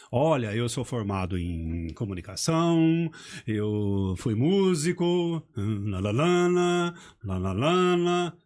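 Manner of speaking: imitating someone trailing off into la la la; a hint of a speaker who never finishes a sentence; mocking rambling speaker. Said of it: "Tem gente que não termina as frases". (imitando alguém que não termina as frases)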